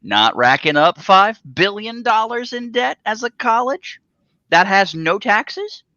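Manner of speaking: talking while munching chips; crunching chips. Real, not acted. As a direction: mouth full of chips. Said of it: "chat's loving your munching on chips".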